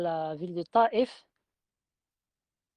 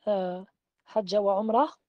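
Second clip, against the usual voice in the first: talbiyah. Shown as a demonstration. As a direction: call out the talbiyah like at the miqat. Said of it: "labbaik Allahumma". (talbiyah lente et proclamée)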